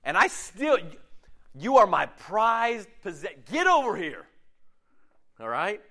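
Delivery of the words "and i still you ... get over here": God pleading, pitched higher; a loving father calling his child home; tender God calling. Acted. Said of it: "God is going".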